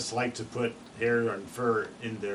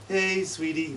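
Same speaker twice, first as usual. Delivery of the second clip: "Hey, sweetie" whistled with pitch falling down; usual chickadee call; 5 semitones higher, slower than usual. Shown as a demonstration. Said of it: "Instead of saying".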